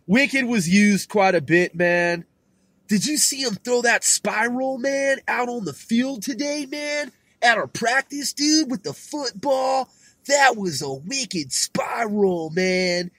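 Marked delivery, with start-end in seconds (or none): 2.9-13.1 a hint of a hyped teen, raised pitch; pumped-up jock. Retelling a practice throw, mock jock excitement. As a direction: jock hyping a friend's throw. Acting out eighties teen slang.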